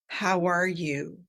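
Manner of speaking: slow, deliberate check-in that truly asks; unhurried, sincere how-are-you; caring, present greeting. Shown as a demonstration. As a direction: ask it slowly, as if you really care. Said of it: "would come across more like".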